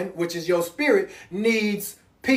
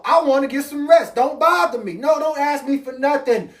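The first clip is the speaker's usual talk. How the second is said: higher, irritated brush-off; fed-up parent; 4 semitones higher than usual. Retold or imitated. Tired father telling kids to leave him alone, irritated. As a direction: shoo them off, you want rest.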